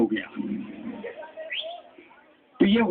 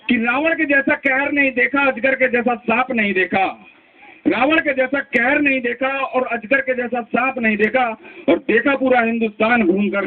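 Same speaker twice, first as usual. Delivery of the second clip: poem recitation. Acted. Recites dedication couplet.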